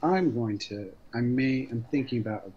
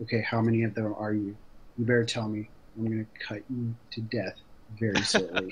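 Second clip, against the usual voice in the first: plain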